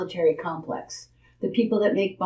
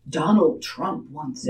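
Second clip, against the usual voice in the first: imitating the host; 4 semitones lower than usual. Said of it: "you notice how he said".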